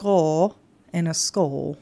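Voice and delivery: slow teaching of "skull" with a throaty vowel; Danish pronunciation. Shown as a demonstration. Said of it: "So the skull is more in the back of your throat".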